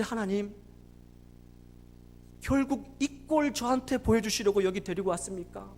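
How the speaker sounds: retold protest, building from subdued to forceful; defiant reproach. Father who gave up everything, reproaching God defiantly. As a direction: begin bitterly restrained, then push into accusation. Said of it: "막 대들었다는 겁니다".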